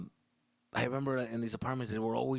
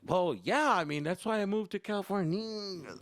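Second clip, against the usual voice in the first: higher, louder defensive son; whiny son; 8 semitones higher, 3 dB louder than usual. Retold or imitated. Son defending his move to California, high and whiny. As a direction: plead your case like a hurt kid. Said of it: "I'm like".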